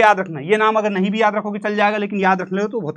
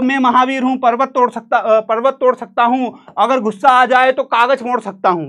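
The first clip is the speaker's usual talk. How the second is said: mock boast; 4 semitones higher, 4 dB louder than usual. Mock boast of a bragging friend.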